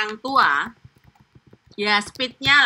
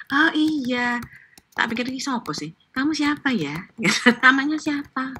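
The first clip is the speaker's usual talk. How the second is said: gentle; 3 semitones higher than usual. Retold or imitated. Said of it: "ngomongnya halus banget".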